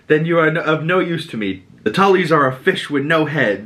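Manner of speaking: a hint of looking down on a boy; mild sneering put-down; mock contempt. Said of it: "he's talking mad shit to him".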